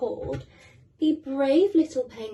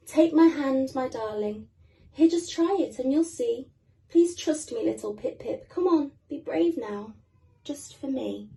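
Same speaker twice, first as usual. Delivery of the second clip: encouraging mummy; 3 semitones higher, 4 dB louder than usual. Acted. Mother encouraging her chick.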